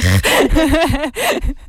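bursts out laughing, high; amused high-pitched laugh. Real, not acted. Laughs at own voice.

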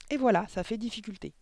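put-on high, proud child's conclusion; triumphant schoolboy. A narrator's reading. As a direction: finish the ditty with pride. Pupil triumphantly ends song. (écolier triomphant, voix aiguë)

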